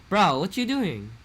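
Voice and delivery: put-on old-generation Pidgin, forceful; aggressive old Pidgin. Shown as a demonstration. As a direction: hit it hard like a traditional Hawaii man. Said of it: "before it was more like".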